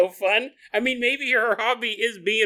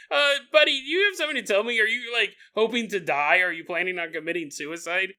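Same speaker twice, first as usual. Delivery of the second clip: concerned friend; faster than usual. Retold or imitated. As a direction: talk him down like a worried buddy. Confronting the fisherman friend.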